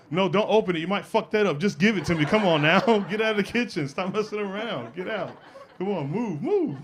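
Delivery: high-pitched, impatient shooing; fussy shooing. Retold or imitated. Teen shooing the cook out of the kitchen, fussy. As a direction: fuss at them, voice rising on the last word.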